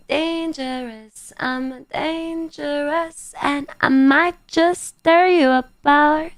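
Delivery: a hint of a pantomime baddie; mock menace. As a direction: tease chat like a pretend villain. Playful mock threat to chat.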